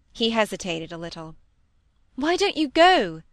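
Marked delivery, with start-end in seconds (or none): 2.2-3.2 loud, high, exasperated demand; impatient. A narrator's reading. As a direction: push him to hurry, out of patience. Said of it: "said Molly impatiently".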